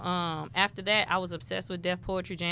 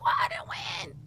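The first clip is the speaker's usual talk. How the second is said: whiny complaint. Retold or imitated. Retold complaint after losing slams.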